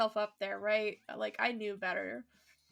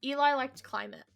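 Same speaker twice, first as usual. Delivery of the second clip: whispering; 2 semitones higher, 3 dB louder than usual. Real, not acted. Fond whispered memory.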